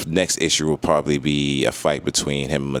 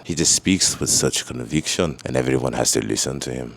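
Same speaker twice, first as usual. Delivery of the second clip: bad Latverian accent; 3 semitones lower than usual. Reviewer imitating Doctor Doom's conviction, terrible Latverian accent. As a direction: try a Latverian accent and miss. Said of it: "That was a terrible accent".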